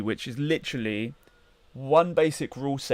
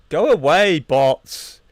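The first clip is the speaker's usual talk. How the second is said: loud; 3 semitones higher, 10 dB louder, much slower than usual. Real, not acted. Shooing bots out of chat.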